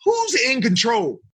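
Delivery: slow, shouted challenge; mock shout to self. Catching himself getting annoyed, slow shout. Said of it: "And I'm like".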